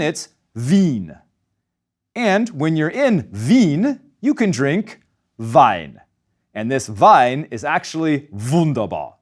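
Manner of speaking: "Wien", "Wein", "wunderbar" with the W said as V; German W as V. Shown as a demonstration. Teacher demoing German W said as V. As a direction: buzz the W as an English V. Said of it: "pronounced as a voiced V".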